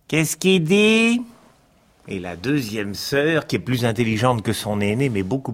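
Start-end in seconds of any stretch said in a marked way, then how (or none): 0.1-1.2 high, slow bewildered question; a silly sister who can't follow; high puzzled voice. Acted. Sister asks what the sun said.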